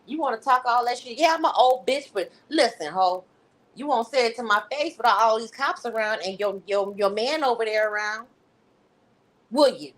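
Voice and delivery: hammed-up rage of an old lady told off; mock anger translation. Speaker voicing Valerie scolding Tiffany, hammed-up fury. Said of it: "I'm Valerie's anger translator".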